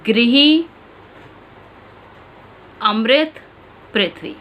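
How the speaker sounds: ृ as री in "गृही अमृत पृथ्वी"; ri pronunciation demo. Shown as a demonstration. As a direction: say each word clearly as री. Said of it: "उदाहरण देखिए".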